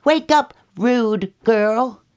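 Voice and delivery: high, loud, slow cub call; high cub's indignant wake-up; Baby Bear calling. Acted. Baby Bear wakes the girl.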